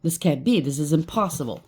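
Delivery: lightly imitated foreign accent; a hint of an unplaceable European accent; unidentified foreign accent. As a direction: echo it in a vague foreign accent. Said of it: "But in an accent".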